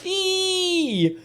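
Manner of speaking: long high-pitched squeal; delighted squeal. Real, not acted. Player thrilled at the best ending, squealing. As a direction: let out a drawn-out gleeful squeal.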